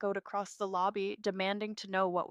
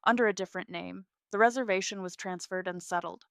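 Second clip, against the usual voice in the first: apologetic but firm; 6 dB louder than usual. Acted. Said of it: "her tone apologetic but firm".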